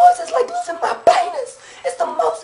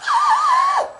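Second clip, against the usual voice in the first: attempted scream; 10 semitones higher than usual. Shown as a demonstration. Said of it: "this is full out, full out screaming".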